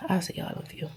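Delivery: soft whispered sign-off. Real, not acted. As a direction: whisper it tiredly. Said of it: "tired whisper".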